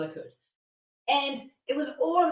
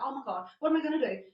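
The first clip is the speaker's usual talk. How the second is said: fast, mildly panicked self-talk; mock racing panic; 3 semitones higher, faster than usual. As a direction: act out thoughts racing, quickly. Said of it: "my thoughts were racing".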